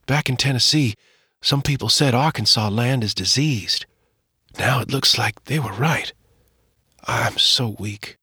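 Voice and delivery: fading, barely holding on; weak sick mother. Acted. Sick mother tells her husband about the fever, weak and tired. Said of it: "Mama said in a weak voice".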